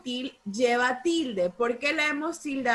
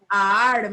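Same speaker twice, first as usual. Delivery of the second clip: "Ar" loud and lower in pitch; stressed syllable demo; 4 semitones lower, 7 dB louder than usual. Shown as a demonstration. Teacher confirming the accented syllable, firm and emphatic. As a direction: hit "Ar" firmly as one whole syllable. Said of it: "¿Cuál es la sílaba correcta?".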